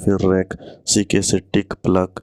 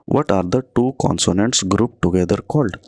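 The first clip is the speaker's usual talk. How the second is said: slow, careful quiz read; reading the question aloud; much slower than usual. Shown as a demonstration. Teacher reading an exam question to students, slow. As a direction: spell the question out slowly for the class.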